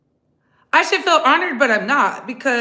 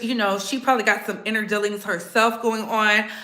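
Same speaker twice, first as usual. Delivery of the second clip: ordinary talk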